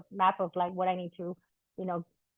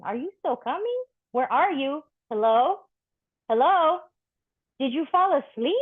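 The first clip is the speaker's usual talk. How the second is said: anxious calling out; 5 semitones higher than usual. Retold or imitated. Waiting for a late lover who won't answer, anxious rising calls. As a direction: call into a silent phone, getting more worried.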